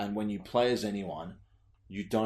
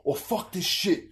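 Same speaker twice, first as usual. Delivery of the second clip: higher, slowed Cockney curse through laughter; mock Cockney swear, laughing; 11 semitones higher, 5 dB louder than usual. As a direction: ham up the Cockney game character swearing. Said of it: "he goes".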